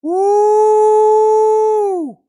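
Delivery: high, loud whooping cheer. Acted. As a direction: whoop it out like a hype man. Streamer cheering on wholesome stream.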